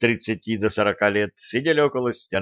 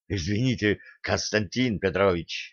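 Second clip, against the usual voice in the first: guilty sigh; 2 semitones lower, 5 dB quieter than usual. Acted. Denis apologising to sensei for being late, guiltily. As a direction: sigh it out like a caught latecomer. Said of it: "виновато вздохнул Денис".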